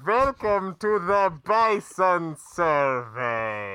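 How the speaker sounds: slow, ominous villain welcome; ominous hooded stranger. Acted. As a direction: announce it slowly like a sinister host. Villain voice announcing.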